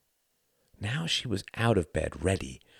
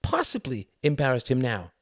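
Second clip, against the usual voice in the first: higher-pitched exasperated inner question; dismayed thought; 8 semitones higher than usual. Acted. Mother wonders how she embarrassed son, dismayed. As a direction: ask yourself in dismay, pitched up. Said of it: "she thought, drawing back".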